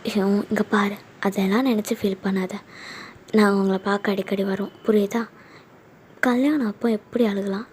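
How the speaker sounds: gently reassure, a touch of motherly concern; soothing mother. Acted. Mother comforting tearful daughter.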